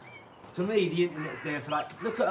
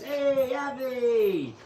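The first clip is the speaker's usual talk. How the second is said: higher, louder shout of a name; movie call-out; 6 semitones higher, 5 dB louder, much slower than usual. Retold or imitated. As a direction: call across the street like a film character. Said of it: "he goes".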